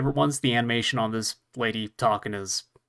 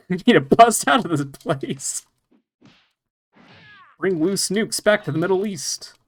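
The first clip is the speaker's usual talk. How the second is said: villain voice; 5 semitones higher than usual. Pretend. Still voicing the cartoon villain.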